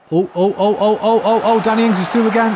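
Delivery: excited. Real, not acted. Striker breaks through on goal.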